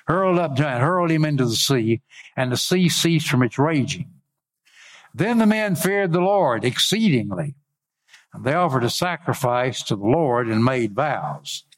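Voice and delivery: measured preacher's Bible reading; scripture reading. Acted. Preacher reads Jonah's story to congregation, declaimed lightly. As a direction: read the verse out deliberately, phrase by phrase.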